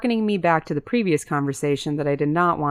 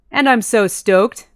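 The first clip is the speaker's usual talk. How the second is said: louder, higher and slow, delighted; a bright burst of joy, drawn out; beaming; 6 semitones higher, 6 dB louder, slower than usual. A narrator's reading. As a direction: gush it out happily. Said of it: "Hank beamed at her".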